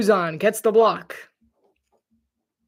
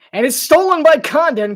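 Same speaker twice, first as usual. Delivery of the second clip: excited call; 6 semitones higher, 7 dB louder than usual. Real, not acted. Call of a steal.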